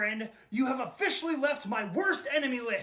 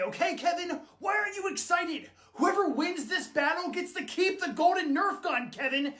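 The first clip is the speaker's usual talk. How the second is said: high-pitched, put-on British urgency; dramatic British accent; 5 semitones higher than usual. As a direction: press him in a theatrical British accent. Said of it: "it sounds more dramatic that way".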